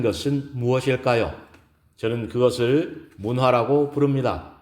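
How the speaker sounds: composed, courteous formal speech opening; lightly voiced lecturer addressing an audience; poised woman lecturer. Gives a lecture in story. (여유롭고 정중한 강연 말투)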